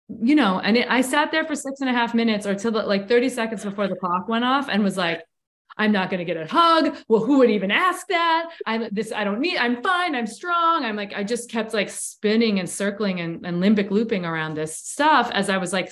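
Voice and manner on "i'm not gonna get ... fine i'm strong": mock-defiant self-talk, pitch jumping up; retold protest, rising high on the denials; defensive protest. Arguing with herself about needing a hug, defensive.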